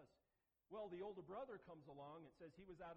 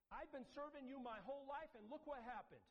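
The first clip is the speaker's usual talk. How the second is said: whiny grievance; 9 semitones higher, 5 dB louder than usual. Retold or imitated. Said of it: "They think God owes them".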